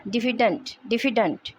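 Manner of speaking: डिफिडेंट with the stress on DI; DIF-i-dent, falling after the first syllable. Shown as a demonstration. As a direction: model डिफिडेंट, leaning on the opening DI. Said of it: "word stress डी पे आएगा".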